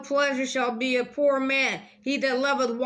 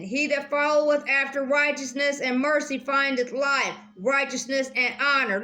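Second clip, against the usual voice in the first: careful reread; 2 semitones higher than usual. Shown as a demonstration. Vlogger rereading the proverb for viewers, deliberate scripture reading. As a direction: read it again with weight on followeth. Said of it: "Let me just read that again".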